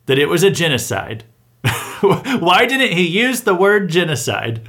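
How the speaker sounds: slow, whiny mock outrage; hammed-up indignant critic, drawn out slowly; mocking the left. Commentator mimicking outraged critics of Trump, slow whiny mock voice. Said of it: "They're like".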